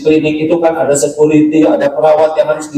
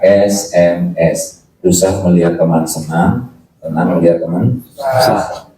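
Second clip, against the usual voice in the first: slow spelled acronym; 10 semitones lower, slower than usual. Shown as a demonstration. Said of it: "Tahu dengki?".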